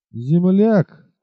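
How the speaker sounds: composed, sneering repeat; calm mocking tone. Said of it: "повторил он спокойным насмешливым тоном".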